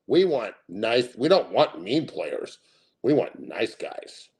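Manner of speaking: slow, sarcastic mock of coaches. Streamer mocking coaches who want nice players, slow sarcasm. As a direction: drag it out sarcastically.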